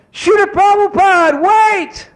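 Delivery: very high, loud call after someone leaving; high-pitched holler across a crowd; urgent shout. Retold or imitated. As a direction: yell to stop them before they drive off. Calls out to stop departing guru.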